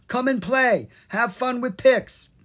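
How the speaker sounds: high, coaxing pixie; tempting pixie voice. A narrator's reading. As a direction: lure her sweetly to play. Pix luring Violet to play.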